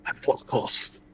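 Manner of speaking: whispered, slow and grave; breathy whisper. Acted. Dramatic repeated line.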